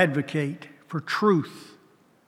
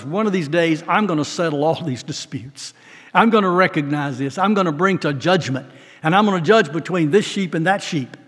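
louder, building preacher's proclamation; preaching the Lord's words; 4 dB louder than usual. Acted. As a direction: proclaim God's judgment to the flock.

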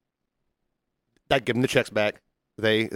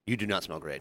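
low, much softer, dry; deadpan low verdict; 6 semitones lower, 13 dB quieter than usual. Retold or imitated. To a friend after sniffing her armpit, low and quiet. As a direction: drop it flat and quiet like bad news.

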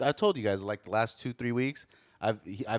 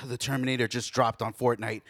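put-on high, louder kid begging; pleading kid; 7 semitones higher, 5 dB louder than usual. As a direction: plead like a kid who needs it now. Son pleading for Fortnite skin.

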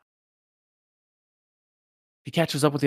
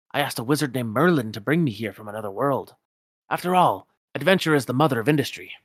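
put-on indignant old Scotsman, raised and rolling; Scrooge McDuck; 4 dB louder than usual. Scrooge voiced.

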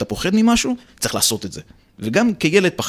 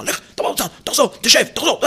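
lightly voiced teacher giving orders; teacher impression; 11 semitones higher than usual. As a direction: snap orders like the annoyed teacher. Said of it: "כי כל הזמן הייתה ככה".

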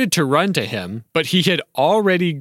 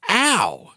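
yelled ow; 8 semitones higher than usual. Acted. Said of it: "she yelled again".

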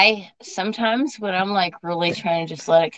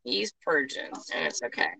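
hushed soothing whisper; soft whispered reassurance; 11 dB quieter than usual. Real, not acted. Soothing hushed aside to partner.

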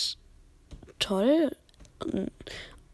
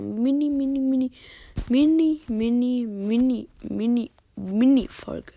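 playful; 6 dB louder than usual. Real, not acted. Playful repeated mini.

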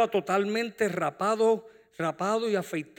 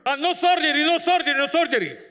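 insistent patient; 9 semitones higher, 6 dB louder than usual. Retold or imitated.

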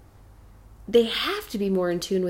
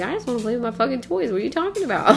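put-on exasperated kid voice; 4 semitones higher, much faster than usual. Son's frustrated outburst quoted.

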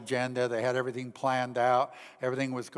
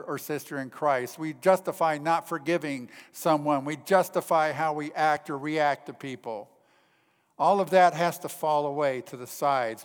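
insistent sermon voice, raised and punched; forceful preaching; 3 semitones higher, 7 dB louder than usual. Real, not acted. Preacher urging believers to stop justifying sin, forceful preaching. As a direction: press the point home to a congregation.

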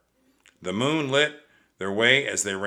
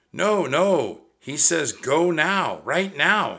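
urgent; 7 semitones higher, 4 dB louder, slower than usual. Acted. Annie urges Jack to hurry.

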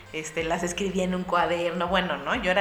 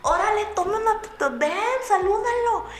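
dad pushing his daughter toward the singer; eager dad; 13 semitones higher, 6 dB louder than usual. Retold or imitated. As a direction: hurry her over with giddy excitement. Dad urging daughter toward star.

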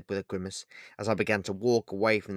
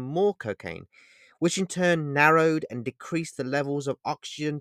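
louder, commanding booming voice; 4 dB louder than usual. Acted. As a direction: boom it like a voice in her ears. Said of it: "The man in black's voice boomed".

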